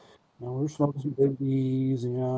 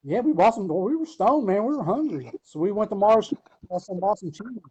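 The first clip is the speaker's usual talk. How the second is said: amused; 8 semitones higher, 6 dB louder than usual. Real, not acted. Laughing retelling of cheese.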